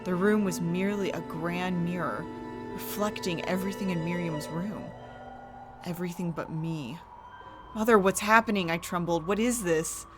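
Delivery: hushed, eerie storytelling. A narrator's reading. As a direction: narrate a gothic horror tale. Horror story narration with music.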